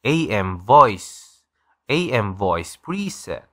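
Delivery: slow, drawn-out preset announcement. Shown as a demonstration. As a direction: stretch each word out like a radio announcer. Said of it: "unang-una tong A M". (mabagal na boses pang-AM radio)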